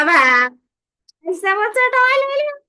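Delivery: high whiny complaining child, hammed up; mock crying child. Crying child complaining to mummy, mock whine. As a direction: whine like a toddler who lost a toy. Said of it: "तो फिर वो रोएगा".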